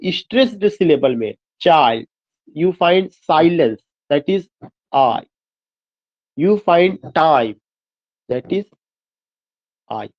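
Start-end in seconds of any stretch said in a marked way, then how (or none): 2.6-10.1 slow poem reading. Shown as a demonstration. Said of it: "here you find what कि repetition of".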